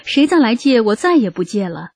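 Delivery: huffing at borrowers who never return tools; angry outburst. Retold or imitated. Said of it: "也会气得说". (假装生气地嚷)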